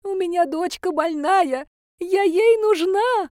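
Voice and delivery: put-on high, slow, quavering old-woman voice; a frail granny waking up in tears. A narrator's reading. Granny begs the reaper. (голос плачущей старушки, высокий и медленный)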